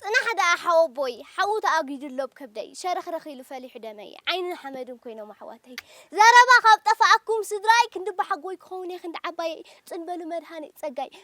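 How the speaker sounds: wailing lament. Acted. Sister wailing over her brother, loud grieving lament. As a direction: lament aloud in waves of grief.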